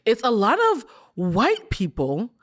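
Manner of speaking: slow, drawn-out "white people"; stress on white people. Real, not acted. Host points out she stressed white people. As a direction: lean on "white" slowly. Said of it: "how you stress white people".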